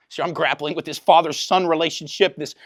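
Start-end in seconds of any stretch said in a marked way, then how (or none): none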